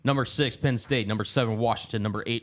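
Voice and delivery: broadcaster rundown. Acted. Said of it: "You started to sound like a little, uh, auctioneer there at the end".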